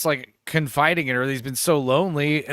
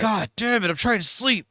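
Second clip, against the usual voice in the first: mock irritation; 4 semitones higher than usual. Woken woman complains in story.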